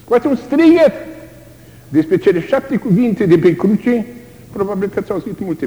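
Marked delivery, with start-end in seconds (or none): 0.0-0.9 high, loud, drawn-out cry out. Acted. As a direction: shout it out like a dying man's call. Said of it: "După asta spune". (strigăt puternic, înalt)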